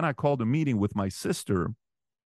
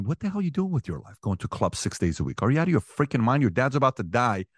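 a retold rant at himself, only partly raised; mock scold yourself, rising on the first question; self-scolding rant; 3 semitones higher than usual. In the car outside the hospital, scolding himself, half-raised. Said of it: "in the car saying".

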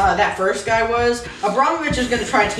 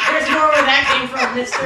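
laughing tough-guy line; 3 semitones higher, 4 dB louder than usual. Retold or imitated. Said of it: "which translates to".

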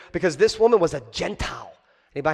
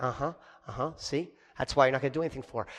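smug crowd jeer; 8 semitones lower, 11 dB quieter, faster than usual. Acted. Jews voiced smug in story.

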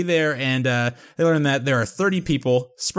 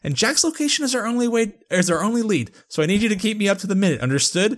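lightly imitated insistent boss, pitched up; Tony; 6 semitones higher than usual. Host reads Tony's rebuke to Chloe, firm but not yelling. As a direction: insist without raising your voice, picking up pace. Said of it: "I read that in Tony's exact voice and, like, intonation".

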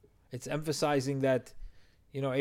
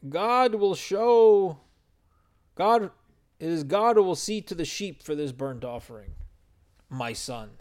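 Abraham's reply; 5 semitones higher, 6 dB louder than usual. Retold or imitated. Father answers his son gently but gravely, high and louder. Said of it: "and Avraham says".

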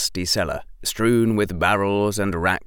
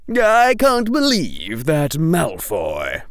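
put-on slow, louder, higher indignant old man; snapping; 7 semitones higher, 4 dB louder, slower than usual. A narrator's reading. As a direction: bite off the name Malfoy in disgust. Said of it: "Flume snapped".

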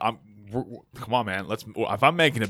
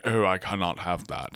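posh Tory accent; 5 semitones lower, 5 dB quieter than usual. Shown as a demonstration. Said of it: "a really posh Tory type of accent".

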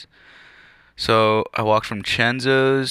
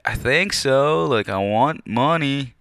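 drawn-out, higher naive reply; slow, higher mock younger self; 5 semitones higher, slower than usual. Answering the owners, slow and higher-pitched naive kid. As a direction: play his younger self, slow and eager.

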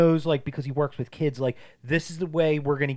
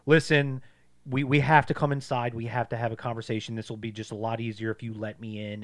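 super calm; 2 semitones lower than usual. Retold or imitated. Leonard talking through the cabin door, super calm. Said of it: "being, like, super calm".

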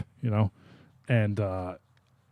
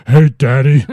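sultry voice; 2 semitones higher, 11 dB louder, slower than usual. Retold or imitated. Joke on the sultry voice.

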